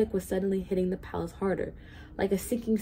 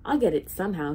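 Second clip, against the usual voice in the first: yelled; 4 dB louder than usual. Acted. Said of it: "he yelled".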